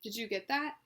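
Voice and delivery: strong voice, each word deliberate and intonated; deliberate, with intent. Shown as a demonstration. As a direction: model phrases clearly for someone to repeat. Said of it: "make sure you're saying each word, um, deliberately".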